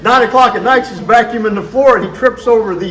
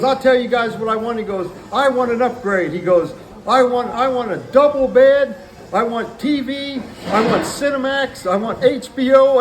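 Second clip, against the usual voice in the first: imitating demanding guy; 5 semitones higher than usual. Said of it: "yelling and screaming on the phone".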